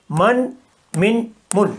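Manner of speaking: من said with each vowel in turn, closing on ن every time; repeated pronunciation drill. Shown as a demonstration. Teacher drilling students on the three readings, careful repetition. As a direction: run through من with each vowel, like a phonics drill. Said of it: "یہاں میم کے اوپر دمہ ہے".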